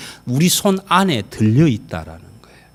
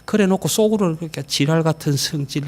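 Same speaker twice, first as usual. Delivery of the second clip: usual speaking voice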